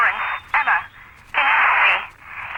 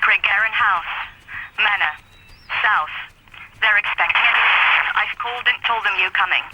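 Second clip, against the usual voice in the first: bad phone line. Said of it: "You sound like you're on a really bad phone line".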